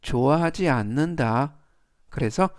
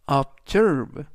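"observe" as ob-ZERVE, second syllable stressed. Shown as a demonstration. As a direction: punch the -SERVE of "observe". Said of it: "S 뒤에 있는 E의 강세가".

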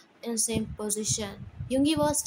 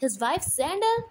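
fast, loud and higher furious rant; angry shout; 6 semitones higher, 3 dB louder than usual. Acted. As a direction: tear into your son in front of all. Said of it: "Dad shout".

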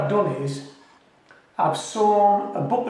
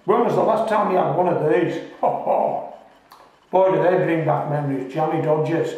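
talking while chewing; mouth full. Real, not acted. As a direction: speak through a mouthful of biscuit. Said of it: "I am talking with my mouth full".

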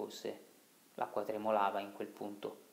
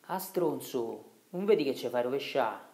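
angry rebuke; 3 semitones higher, 6 dB louder than usual. Acted. Agnolo scolds Riccetto in the boat.

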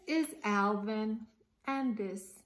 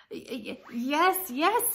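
stammering fear; 5 semitones higher, 7 dB louder than usual. Acted. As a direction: stutter then loud, high frightened yes. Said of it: "said Alice".

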